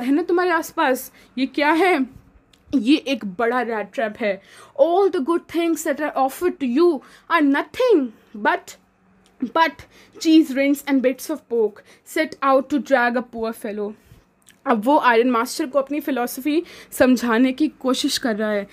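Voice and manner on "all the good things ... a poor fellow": reading the English passage aloud slowly; measured classroom read-aloud; slow story reading. Acted. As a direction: read each word carefully, like a textbook. Reads English story text aloud.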